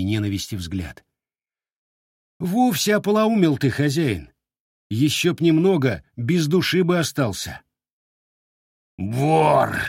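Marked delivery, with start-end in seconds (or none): 2.4-7.6 lightly voiced voivode scolding, higher; a hint of a gruff commander chiding; stern voivode. Voivode scolds the crazed owner. 9.0-9.8 croaked out, louder and far; hoarse accusing cry. Acted. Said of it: "прохрипел".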